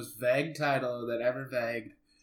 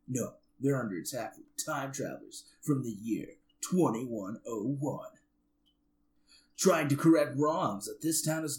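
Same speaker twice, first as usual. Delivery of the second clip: trailer guy voice. Pretend. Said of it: "uh, trailer guy voice".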